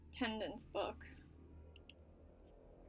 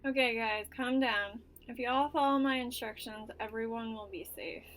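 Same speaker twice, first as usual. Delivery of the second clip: teacher voice; 4 dB louder than usual. Acted. Teacher addresses class.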